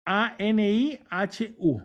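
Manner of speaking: letter by letter, spaced out; slow spelling. Shown as a demonstration. Teacher spelling his research finding, slow separate letters. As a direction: spell A N I H U slowly and clearly.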